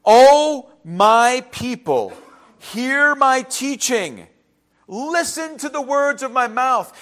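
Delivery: slow, drawn-out prophetic call; prophet crying out. Acted. Asaph crying out to his people, slow and solemn. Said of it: "He cries out".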